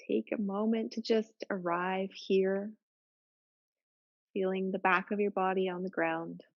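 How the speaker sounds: calm, even yoga-teacher voice with long pauses; settled, level meditation cueing; guided relaxation. Real, not acted. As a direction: gently guide them into their breath, unhurried. Leads breathing relaxation.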